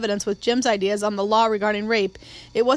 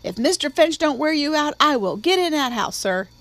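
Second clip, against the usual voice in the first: a higher-pitched stock threat from the housekeeper; Calpurnia's classic threat; 5 semitones higher than usual. A narrator's reading. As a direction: deliver the old familiar threat. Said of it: "with her classic".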